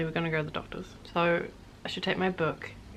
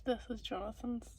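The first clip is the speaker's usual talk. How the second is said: soft hushed whisper; 3 semitones higher, 12 dB quieter than usual. Real, not acted. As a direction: keep it to a breathy whisper. Whispering beside sleeping Jonathan.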